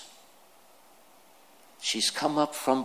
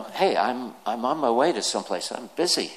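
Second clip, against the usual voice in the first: irritated. Shown as a demonstration. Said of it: "Is that the tone?".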